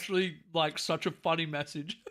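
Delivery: apologising through laughter; laughing. Real, not acted. Host reacting to a friend's funny message, laughing. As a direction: talk while trying not to laugh. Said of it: "sorry that I'm laughing".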